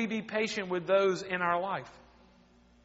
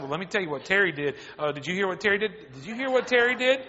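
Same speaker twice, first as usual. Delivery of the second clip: mock gossip; faster than usual. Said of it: "go to everybody else and say".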